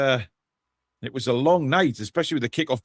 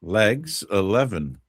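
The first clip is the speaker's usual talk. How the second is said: bingo caller; much slower than usual. Acted. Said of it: "Sounded like a bingo caller there".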